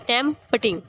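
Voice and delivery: "टैम पटिंग" broken after टैम; split into syllables. Shown as a demonstration. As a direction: say "टैम पटिंग" in two separate beats. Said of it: "word के दो हिस्से हो गए". ("टैम पटिंग" को दो हिस्सों में तोड़कर)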